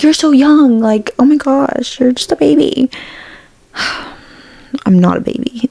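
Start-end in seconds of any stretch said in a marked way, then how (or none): 0.0-2.9 mock condescending. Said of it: "'cause they're always like".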